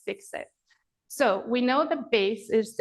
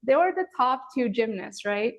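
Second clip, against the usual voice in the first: mock yelling at absent students, pitched up; retold excited yell; 4 semitones higher than usual. Yoga teacher calling to distant students, excited. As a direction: shout at the TV as if students could hear. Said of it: "yelling at my students who are nowhere near me".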